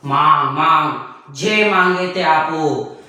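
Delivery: a hint of a booming, laughing god; Shiva granting a boon. Shiva pleased with the demon, lightly voiced god with laugh. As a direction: grant the wish with a god's hearty laugh. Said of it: "Shankar ભગવાને કહ્યું".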